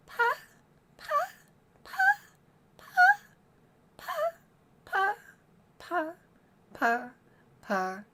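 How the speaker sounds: pa syllables stepping up to very high, then back down; pitch siren on pa. Shown as a demonstration. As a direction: climb the pitch one pa at a time, then descend. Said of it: "yeah, four more times".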